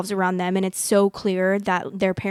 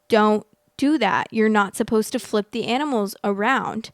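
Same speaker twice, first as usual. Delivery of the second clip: more aggressive tone. Retold or imitated. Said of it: "I get a little bit more aggressive with my tone".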